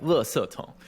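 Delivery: "le se tong" in Taiwanese Mandarin. Shown as a demonstration. Showing a host the Taiwanese word for trash can, Taiwanese Mandarin. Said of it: "in, in Taiwanese Mandarin, we say trash can".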